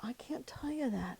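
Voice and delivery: a choked, hushed confession; soft, breathless whisper, afraid to say it; tearful whisper. Retold or imitated. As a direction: whisper it through tears, barely voiced. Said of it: "And I said".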